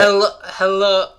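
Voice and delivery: loud, strained attempt at deep; botched deep voice. Shown as a demonstration. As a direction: drag the hello out loudly, straining for depth. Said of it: "sound like you're having a stroke".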